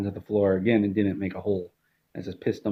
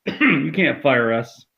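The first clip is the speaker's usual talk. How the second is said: slow put-on wife's retort; slow lightly voiced wife; 4 semitones higher, 4 dB louder, much slower than usual. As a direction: drag it out flatly as the wife.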